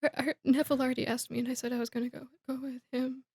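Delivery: quick mumble fading very soft; embarrassed. Retold or imitated. Ginny telling Harry she has a date, embarrassed. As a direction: rush in, then shrink away softly. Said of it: "she's, like, super embarrassed".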